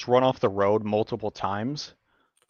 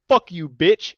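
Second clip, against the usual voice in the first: louder, higher retold insult; mock angry yell; 5 semitones higher, 5 dB louder, slower than usual. Rider yells at the pickup driver, mock angry. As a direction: throw it at him over the shoulder. Flipping off driver who cut him.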